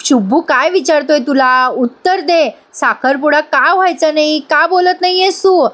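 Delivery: mock telling-off, pitch climbing by the end; mildly acted angry questioning; retold scolding. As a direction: press for an answer without really shouting. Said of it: "ओरडते तिच्यावर आणि म्हणते".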